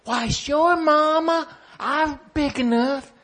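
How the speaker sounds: put-on little boy voice. Child answers mama eagerly.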